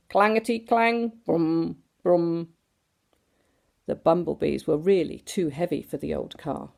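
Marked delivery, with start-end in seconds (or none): 0.1-2.5 engine noises. A narrator's reading. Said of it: "his engine went brum".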